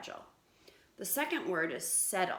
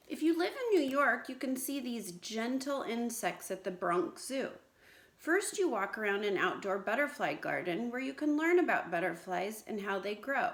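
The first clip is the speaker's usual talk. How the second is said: put-on lively storybook read-aloud to children; story reading; 3 dB louder than usual. Teacher reading a story to her class, lively read-aloud. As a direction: read it out brightly like a picture book.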